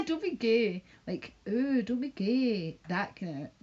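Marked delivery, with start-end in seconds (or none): 0.1-0.8 lightly voiced playground jeer; a hint of a schoolyard taunt; schoolkid taunt. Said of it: "in a school way". 1.5-2.8 slow, drawn-out mocking Ooh, don't be gay; slow, teasing imitation of his vibe. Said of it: "that vibe he gives off".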